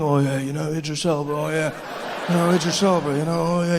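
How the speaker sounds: low, breathy swoon; lightly hammed-up swooning fan; swooning ladies. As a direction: purr Idris Elba like an admirer. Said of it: "you can hear the ladies".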